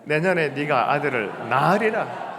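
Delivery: 내년에 네가 아들을 낳으리라 said slowly and loudly, stressing 낳으리라; loud slow proclamation. Shown as a demonstration. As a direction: declare it slowly to your neighbor, leaning on 낳으리라. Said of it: "시작". (낳으리라에 힘을 주어 천천히 크게 선포하듯)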